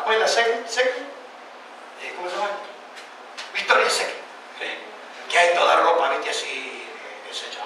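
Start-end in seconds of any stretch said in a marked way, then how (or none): none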